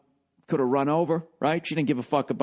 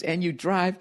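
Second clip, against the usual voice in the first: slow, high, drawn-out mock scream; hammed-up disgusted yell; 8 semitones higher, much slower than usual. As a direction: stretch it out like an outraged heckler. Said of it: "She started yelling at me about my car".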